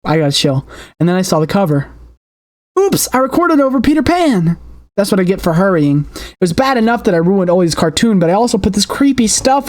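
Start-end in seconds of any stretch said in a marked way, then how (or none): 2.8-4.6 startled. Acted. Startled discovery.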